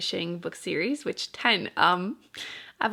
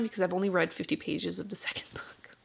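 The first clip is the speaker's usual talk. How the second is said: whisper; 7 dB quieter than usual. Real, not acted. Sheepish confession, whispered.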